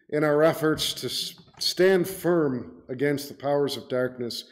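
earnest, measured pastoral prayer; closing prayer. Real, not acted. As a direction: lead the congregation in reverent petition to God. Preacher leads closing prayer.

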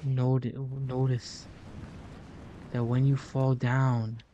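lightly voiced sage giving advice, unhurried; a hint of an old uncle teaching his nephew; wise mentor voice. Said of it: "Why am I talking like that?".

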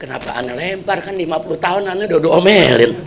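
a hurt husband quietly grieving to God; sad lament. Retold or imitated. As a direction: sigh it out to God in grief. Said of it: "hatinya sedih".

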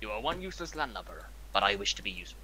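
put-on British pirate accent. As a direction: growl it like a British buccaneer. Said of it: "I'm a British pirate".

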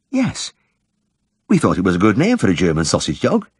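high, gentle village woman; shy woman's voice. Acted. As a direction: lift the voice for the shy wife. Mrs Cundall voiced.

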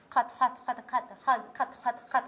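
カット, ハット rattled off quickly and loudly; fast loud drill. Shown as a demonstration. Student speeding up the drill at the teacher's request, loud. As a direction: race through カット and ハット, punching each. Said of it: "早く言ったらどうなります".

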